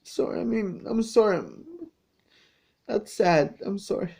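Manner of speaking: soft, tearful apology; real crying. Real, not acted. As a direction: murmur sorry through tears. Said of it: "I'm crying right now".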